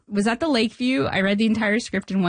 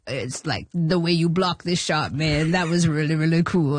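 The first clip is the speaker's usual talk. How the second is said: lightly voiced comedian, a bit lower; Adam Sandler impression; 4 semitones lower than usual. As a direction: imitate the comedian's laid-back praise. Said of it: "It's the real Adam Sandler voice?".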